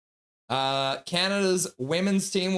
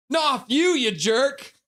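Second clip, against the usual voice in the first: playful teasing; 11 semitones higher, 6 dB louder, much slower than usual. Real, not acted. Playful teasing jab at chat.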